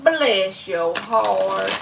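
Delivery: slow drawled bless your heart. Shown as a demonstration. Streamer teases a viewer, slow drawl. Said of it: "says it to viewer".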